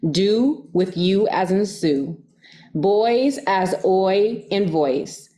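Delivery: slow "you as in Sue", "oi in voice" drawn out; slow teacher's pronunciation guide; spelling out sounds. Shown as a demonstration. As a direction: stretch each example sound slowly. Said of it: "My name is pronounced".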